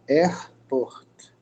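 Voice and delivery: "airport" with an ordinary Portuguese R; plain R. Shown as a demonstration. Teacher shows students the unpolished way, "airport" with uncurled R. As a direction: say "airport" without curling the tongue on the R. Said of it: "com o R normal".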